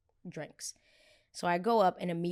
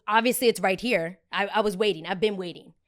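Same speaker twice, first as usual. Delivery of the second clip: snippy woman; 6 dB louder than usual. Retold or imitated. Woman scolding about the line.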